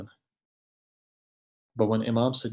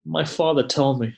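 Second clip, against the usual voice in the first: raised, pleading lament to a father; retold child's plea, pitched up in grief; grieving plea; 2 semitones higher than usual. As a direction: implore a father who will not answer. Orphaned daughter pleads with dead father.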